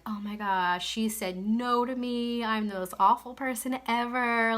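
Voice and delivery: hammed-up weepy whine, half-hearted; waitress faking heartbreak over a declined coffee, mock crying. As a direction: pretend to sob over a tiny no. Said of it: "run away crying and being like".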